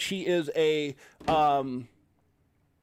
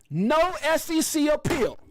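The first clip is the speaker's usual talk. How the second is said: excited announcement; 9 semitones higher than usual. Real, not acted. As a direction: announce it like breaking news. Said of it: "I got a little quote for you".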